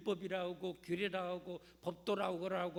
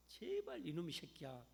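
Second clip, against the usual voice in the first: nagging mother; 4 dB quieter than usual. Retold or imitated. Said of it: "하면서 그렇게 잔소리하면".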